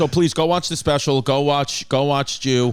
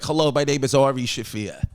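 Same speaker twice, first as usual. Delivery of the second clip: lightly done New York Jewish accent. Shown as a demonstration. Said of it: "Hey, do a Jewish accent".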